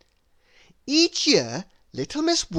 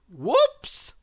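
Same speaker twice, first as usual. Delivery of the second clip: mild whoops; 7 semitones higher than usual. A narrator's reading. Sound-effect exclamation after accident.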